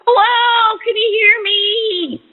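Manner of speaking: talking with phone in mouth; words around the phone; phone held in teeth. Real, not acted. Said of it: "I practically got the phone in my mouth".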